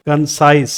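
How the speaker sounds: कंसाइज in two parts, कं then stressed साइज; two syllables, second stressed. Shown as a demonstration. Teacher counting the sounds for learners, stress on साइज in कंसाइज. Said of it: "sounds तो दो आ रही है".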